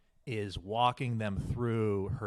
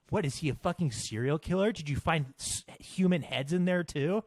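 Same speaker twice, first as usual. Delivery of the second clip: put-on higher-pitched incredulous girls; mock disbelief; 5 semitones higher than usual. Girls grilling their friend about her date, mock incredulous. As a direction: imitate the friends' appalled questioning. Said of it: "they're like".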